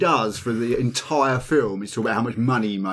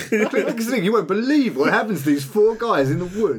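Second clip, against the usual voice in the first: hyped clickbait teaser, raised pitch; clickbait video narrator; 7 semitones higher than usual. Pretend. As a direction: pitch it like an online ad. Mimicking clickbait ad.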